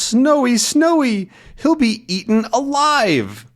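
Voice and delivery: high, loud cry for the dog; acted alarm. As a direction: call out in storybook panic. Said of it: "And he goes".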